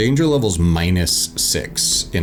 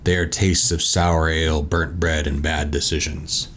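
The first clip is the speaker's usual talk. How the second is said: measured read-aloud scene setting; story narration; 2 semitones lower than usual. A narrator's reading. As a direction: read the box text like a storyteller. Reads boxed tavern description.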